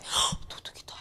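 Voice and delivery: breathless whisper of 도둑이다; 헉 gasped, 도둑이다 whispered unvoiced. Shown as a demonstration. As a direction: gasp then whisper it as if afraid. Timid reaction to thief.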